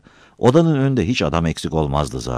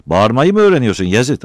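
angry grumbling; 7 semitones higher, 7 dB louder than usual. Acted. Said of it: "Battal kızdı".

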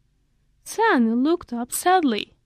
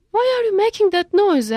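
louder curious question; 8 semitones higher, 6 dB louder than usual. A narrator's reading. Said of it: "asked Mister Monkey again".

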